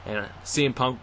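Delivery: live ringside play-by-play, rising with the action; wrestling commentator. Acted. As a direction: call the match as it happens.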